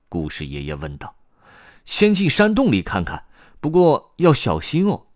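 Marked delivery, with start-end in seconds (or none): 1.9-5.1 high, louder youngster voice with a warning; 卡梅利多. A narrator's reading. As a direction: caution the group in a high character voice. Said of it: "卡梅利多回答". (高音小角色提醒大家小心)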